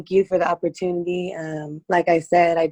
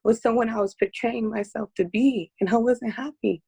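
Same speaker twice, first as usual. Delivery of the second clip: fighting back tears, pitch up; emotional, near tears; 3 semitones higher than usual. Real, not acted. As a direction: voice tight with held-back tears. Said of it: "I'm gonna get emotional".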